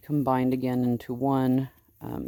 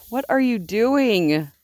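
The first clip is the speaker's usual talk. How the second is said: surprised; 7 semitones higher, 5 dB louder, slower than usual. Real, not acted. Startled by the sheep.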